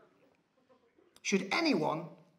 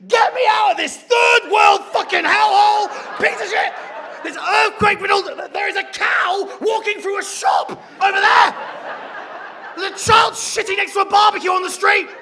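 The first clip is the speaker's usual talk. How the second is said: loud, high-pitched frantic yelling; panicked angry rant; 8 semitones higher, 10 dB louder than usual. Retold or imitated. Traveller needing an operation abroad, ranting in panic. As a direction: shout it like a tourist in meltdown. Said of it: "As soon as I needed an operation".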